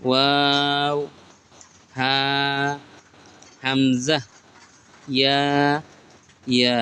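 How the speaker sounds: letter names stretched long, one by one; slow, stretched Arabic letter names; drawn-out recitation. Shown as a demonstration. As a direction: draw out each letter name like a Quran teacher. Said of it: "আরেকবার পড়তে চাই".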